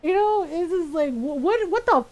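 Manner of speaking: loud incredulous rant; can't believe it, furious; outraged disbelief. Real, not acted.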